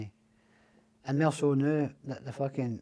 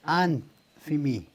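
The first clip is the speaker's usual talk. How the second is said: retold shout; 5 dB louder, slower than usual. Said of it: "Archie shouted into the mouthpiece".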